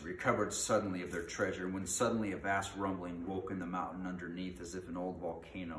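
dramatic fantasy storytelling; animated read-aloud of an adventure tale; story narration. A narrator's reading. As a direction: read it out with punch on the key words.

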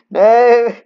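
loud, high dismayed shout. Real, not acted. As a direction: yell it out in defeat. Losing HP again.

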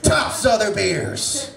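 mock beer ad. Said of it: "I hold up a Budweiser and I'm like".

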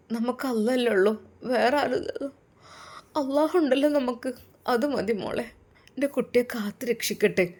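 a mother gently trusting in God; consoling mother. Acted. Mother comforting daughter.

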